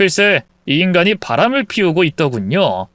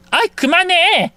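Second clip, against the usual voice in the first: mistress in pain; 14 semitones higher than usual. Acted. Mistress being stomped under the blanket, whining in pain. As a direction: whine at her to stop.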